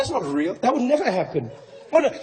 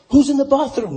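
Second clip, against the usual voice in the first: calling out. Retold or imitated. Oscar calls into the bathroom, voice raised. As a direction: call it out to the dark room.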